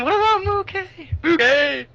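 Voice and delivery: very high, strained shout; high-pitched urgent yell; shout to the captain. Acted. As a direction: holler the question across a distance. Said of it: "I'll shout to the captain".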